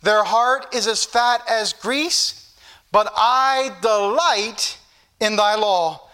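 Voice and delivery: slow, measured declamation of a verse; emphatic, drawn-out pulpit reading; scripture reading. Real, not acted. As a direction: read the verse out slowly and deliberately. Reads scripture to congregation.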